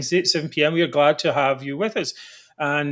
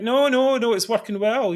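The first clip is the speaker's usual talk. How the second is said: mock Tory denial; 7 semitones higher than usual. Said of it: "They're like".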